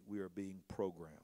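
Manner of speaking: hushed, ominous whisper. Real, not acted. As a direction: lean in and whisper the warning. Ominous revelation in sermon.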